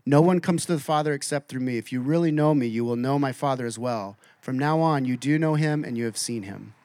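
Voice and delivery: lightly voiced tender Jesus, unhurried; gentle and careful. Pastor voicing Jesus answering confused Thomas, gentle. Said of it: "so gently and so carefully and so precisely says".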